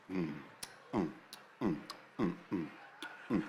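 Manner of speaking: short low hums, spaced apart; a soul singer's hums. Acted. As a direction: hum in little bass grunts. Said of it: "Oh, that singer's style".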